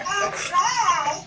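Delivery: very high, loud squeaky mimicry; mock noncommittal answer. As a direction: pitch it way up, mockingly.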